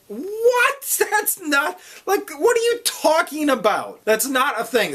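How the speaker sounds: incredulous high-pitched outburst through laughter; laughing disbelief. Retold or imitated. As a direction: blurt it out in laughing astonishment. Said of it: "like, laughing".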